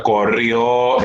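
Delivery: "Corrió" with a drawn-out, stressed final o; stress on final syllable. Shown as a demonstration. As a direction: lean on the last syllable of "Corrió". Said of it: "terminan con O llevan acento". ("Corrió" alargando la ó final acentuada)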